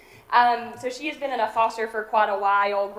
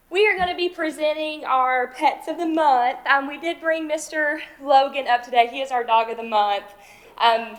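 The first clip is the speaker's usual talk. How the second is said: out of breath; 3 semitones higher than usual. Real, not acted. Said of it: "sorry, I'm out of breath".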